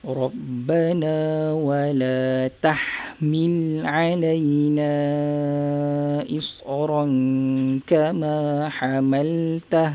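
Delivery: melodic recited verse; lightly chanted recitation; Quran recitation. Shown as a demonstration. Teacher recites verse to class.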